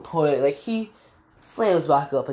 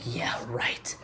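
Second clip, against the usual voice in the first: soft, half-whispered dismissal; hushed scoff; 4 semitones lower, 9 dB quieter than usual. Retold or imitated. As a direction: toss it off under the breath. Retold scoffing reply.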